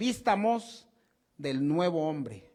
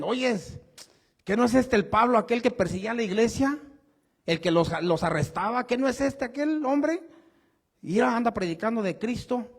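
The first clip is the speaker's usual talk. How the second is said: higher, amazed gossiping voice; incredulous disciples; 5 semitones higher than usual. Retold or imitated. Disciples marvel at the former persecutor, higher and incredulous. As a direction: act out stunned disbelief at the convert. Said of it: "los discípulos del Señor les decían".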